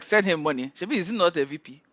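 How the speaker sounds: can't believe the fake VP needs money; laughing mock disbelief. Friend mocking the auntie's money offer, laughing in disbelief.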